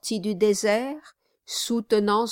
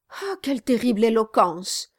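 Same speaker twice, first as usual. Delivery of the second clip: mock-awed exclaim; 2 semitones higher, faster than usual. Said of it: "s'écria Brass en éternuant".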